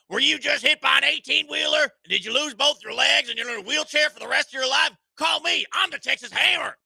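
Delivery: cheesy attorney commercial voice; mock ad lawyer. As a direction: sell it like a late-night TV lawyer. Parody lawyer ad.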